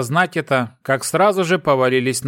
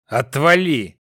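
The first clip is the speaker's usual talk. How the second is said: rude snap; slower than usual. A narrator's reading. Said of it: "грубо ответил".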